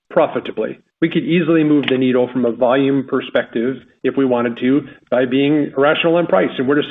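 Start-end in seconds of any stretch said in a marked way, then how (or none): 0.1-0.8 "profitably" set apart for emphasis; stress on profitably. Real, not acted. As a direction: stress the word "profitably" as the key point. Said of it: "I have to emphasize this word".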